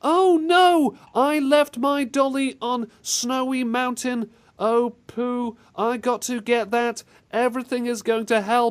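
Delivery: high, mock little-girl voice; put-on high girlish recital. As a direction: imitate a stilted child in distress. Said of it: "a little girl comes out and says".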